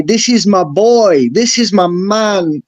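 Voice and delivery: slow, drawn-out slang shout-out; a playful, slowed-down hype line; kids' slang. Retold or imitated. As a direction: say it like the kids do, slowly and proud. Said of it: "as the kids would say".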